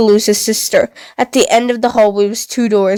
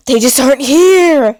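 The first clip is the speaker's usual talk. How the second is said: self-reassuring; 4 semitones higher, 3 dB louder than usual. Acted. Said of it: "The tiger tried to reassure himself".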